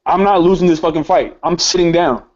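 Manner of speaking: determined, digging-in retelling; defiant resolve. Retold or imitated. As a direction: dig your heels in. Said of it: "I get on my Rosa Parks shit".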